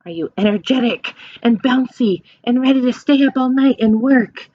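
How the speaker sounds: normal talking voice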